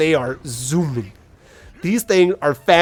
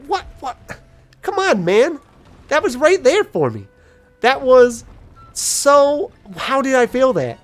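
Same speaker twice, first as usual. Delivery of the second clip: much higher, indignant gamer complaint; mock outraged player; 6 semitones higher than usual. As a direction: player wailing at a failed die roll, hammed-up disbelief. Player loses a favourable roll.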